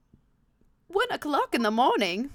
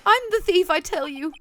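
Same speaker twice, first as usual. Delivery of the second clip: I'm the thief shouted high and loud; frantic high shout of a confession; 7 semitones higher, 8 dB louder than usual. Acted. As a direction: blurt it out at full volume. Ron shouts his confession.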